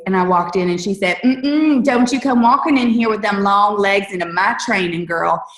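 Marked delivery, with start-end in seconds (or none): 1.2-5.4 Texas drawl, teasing scold, pitch up on the mm-mm; sassy Southern drawl. Retold or imitated. A Southern upline scolding a newcomer in Texas drawl. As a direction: put on a Southern belle's playful tut-tut, Texas drawl. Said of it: "this sweet Southern voice".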